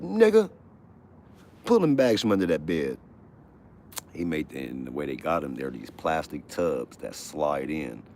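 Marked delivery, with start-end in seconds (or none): 0.0-3.0 high, loud barking guard; mock guard yell. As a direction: bellow like a prison guard. Guard ordering inmate.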